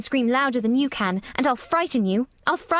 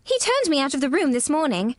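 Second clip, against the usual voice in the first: put-on high, indignant child voice; excited outburst; 6 semitones higher than usual. A narrator's reading. Mary protesting to the nurse, excited and stamping. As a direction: blurt it out high, with a stamp of temper. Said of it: "stamping her foot with excitement".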